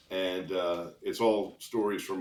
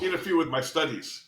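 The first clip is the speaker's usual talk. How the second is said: imitated Asian accent, a bit higher; rough Asian accent; 4 semitones higher than usual. Injured student explaining to officer in ambulance, imitated Asian accent. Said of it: "don't do a really good Asian accent".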